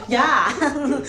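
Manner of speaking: high, chirpy agreement; mock-naive bright reply; oblivious eagerness. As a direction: answer perkily, missing the hint.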